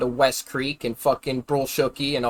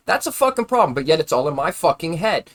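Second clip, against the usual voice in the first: angry. Real, not acted. Angry rant about disability.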